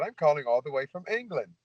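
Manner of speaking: put-on British caller voice; British accent. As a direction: pose as a caller from England with a mock British accent. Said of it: "I got a British accent".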